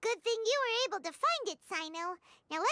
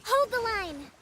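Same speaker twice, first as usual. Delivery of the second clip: combat call; 5 dB louder, slower than usual. Acted.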